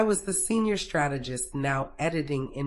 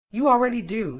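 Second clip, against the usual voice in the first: smirking; 7 semitones higher, 5 dB louder, faster than usual. Acted. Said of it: "he smirked".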